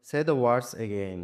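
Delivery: very slow, each word apart; slow reading. Shown as a demonstration. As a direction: read the instruction slowly for pupils. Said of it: "teacher reads instruction aloud". (খুব ধীরে পড়া)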